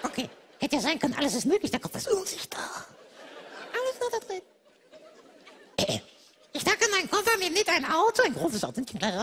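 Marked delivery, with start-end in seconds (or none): 1.7-4.4 mock crying.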